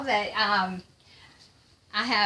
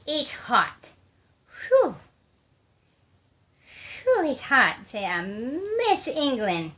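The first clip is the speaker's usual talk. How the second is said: slow, playfully put-on whine about the heat; silly complaining voice; 4 semitones higher, slower than usual. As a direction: draw it out in mock suffering. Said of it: "I'm just being silly now".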